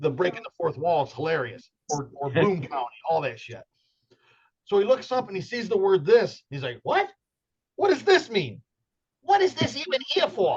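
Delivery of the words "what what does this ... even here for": very high cartoon voice swooping around. Voicing a comic character he draws, Bugs Bunny meets Ed Wood voice. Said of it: "He sounds like Bugs Bunny meets".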